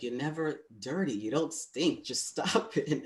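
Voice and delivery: lightly voiced partner brushing it off with a laugh; partner's reassurance. Partner telling speaker to stop washing, mildly exasperated. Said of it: "he was always like".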